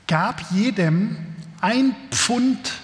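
calm, measured reading of a Bible passage; scripture reading. Acted. Pastor reading the parable to his congregation, measured reading voice. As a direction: read the passage to the congregation, unhurried.

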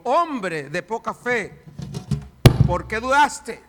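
a hint of a firm rebuke; gentle rebuke. Jesus scolding Peter as he lifts him, mild rebuke. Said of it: "le dijo".

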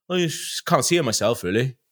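lightly imitated West Wales cameraman; West Wales accent. Cameraman doubting the host's job, light West Wales accent. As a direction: give a hint of West Wales. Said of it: "very West Wales accent".

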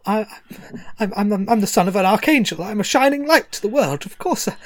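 quick, stammering self-justification; mild mock nerves, rushing and trailing off; nervous stammer. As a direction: babble fast to hide the fear. Nervous Quill stammers his worth.

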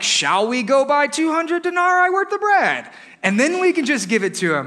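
mock-incredulous question, pitched high and drawn upward; sarcastic. Disciples answering Jesus's order to feed them, sarcastic. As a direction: read it as a scornful, exaggerated question. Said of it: "read this with a sense of sarcasm".

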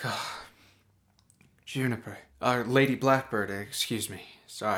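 sighed, flustered self-correction; sighing. Acted. Man greets Juniper and corrects himself to Lady Blackbird, sighing. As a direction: let out a sigh, then apologise awkwardly. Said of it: "The man sighs".

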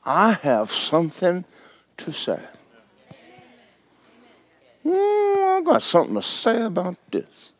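a believer who is done waiting; defiant declaration. Acted. Believer speaking up to the Holy Spirit, quiet and determined. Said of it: "for you to go".

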